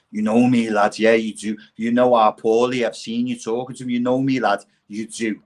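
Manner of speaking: insistent mock gangster patter; lightly acted punter pestering the bouncer; pretend gangster. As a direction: keep badgering to get in. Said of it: "plazzy gangsters".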